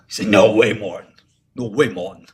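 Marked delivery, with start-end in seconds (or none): 0.3-1.1 louder mock Tony protest; imitating Tony. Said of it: "That's how he talks". 1.6-2.3 repeated at normal level, lightly voiced Tony; softer Tony imitation. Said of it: "That's how he talks".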